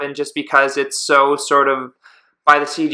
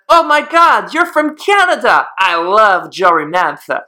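put-on Eastern European accent; 3 semitones higher, slower than usual. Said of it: "when you brought on that accent was perfect".

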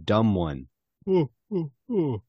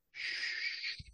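whispered shush; 15 dB quieter than usual. Acted. Hushing the Spanish speaker.

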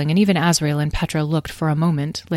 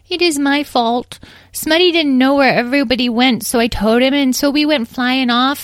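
put-on high, childlike little-pony voice; tiny confessing pony; 10 semitones higher, 5 dB louder than usual. Tiny pony explains how they all got here, earnest and childlike.

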